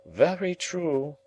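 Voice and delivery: slow, grave lady agreeing; grave and emphatic. A narrator's reading. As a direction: agree gravely, leaning on each word. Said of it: "said gravely and emphatically".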